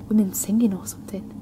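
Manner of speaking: unvoiced, hushed whisper. Woman whispering about voices she hears. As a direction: hush it like a secret.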